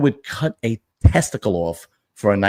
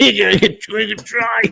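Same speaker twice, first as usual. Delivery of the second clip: high-pitched, joking plea through laughter; playful, squeaky begging; laughing plea; 11 semitones higher, slower than usual. Pretend. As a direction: laugh while hopefully pitching yourself. Joking romantic plea to absent woman.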